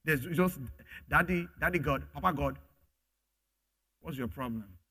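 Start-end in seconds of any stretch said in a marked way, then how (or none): 1.1-2.6 fond, gentle Daddy God; tender, from the heart. Shown as a demonstration. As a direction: call him Daddy like a child who loves him. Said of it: "there's a way to say it".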